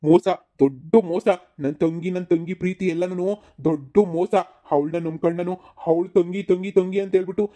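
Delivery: betrayed brother railing at his sister; angry outburst. Acted. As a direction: spit out the word ಮೋಸ in anger. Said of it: "ಇದ್ ಯಾಕ್ ಹಿಂಗ್ ಕೂಗಾಡ್ತಾ ಇದೀರಲ್ಲ".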